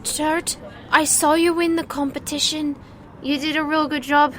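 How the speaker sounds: put-on a hesitant little street kid asking politely; shy child. Street kid tugging at the winner, shy child voice. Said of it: "and they fumble".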